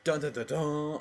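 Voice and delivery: lightly mimicked superhero entrance fanfare; a half-hearted dun-dun superhero sting. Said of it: "Kind of a superhero voice".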